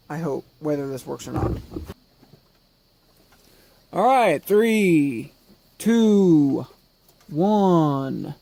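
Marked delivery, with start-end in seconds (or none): 3.9-8.4 loud, tense countdown to launch. Real, not acted. Countdown before power on.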